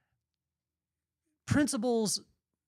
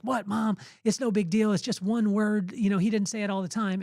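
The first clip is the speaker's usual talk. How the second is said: put-on higher-pitched kid brushing it off; lightly voiced protesting kid, pitched up; dismissive protest; 4 semitones higher than usual. Kid downplaying a cuss word to his mom, dismissive protest.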